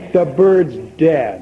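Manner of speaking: slow, flat-voiced "The bird's dead." with a falling end; deadpan. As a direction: drop the news drily and slowly. Customer reports the dead bird.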